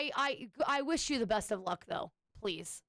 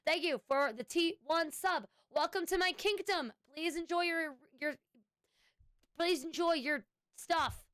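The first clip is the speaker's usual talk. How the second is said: high-pitched, showy greeting; playful welcome; 5 semitones higher than usual. Pretend. Streamer welcoming a subscriber to the kingdom, playfully grand.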